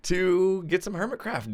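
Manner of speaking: hoarse from a cold; rough voice under the weather; sick voice. Real, not acted. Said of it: "me in a sick voice".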